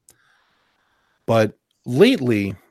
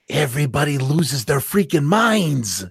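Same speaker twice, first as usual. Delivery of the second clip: Joker; 3 semitones higher than usual. Acted. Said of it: "and to quote the Joker".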